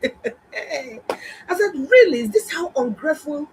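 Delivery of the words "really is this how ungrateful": inner disbelief. Retold or imitated. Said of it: "Inside me, that's what I said".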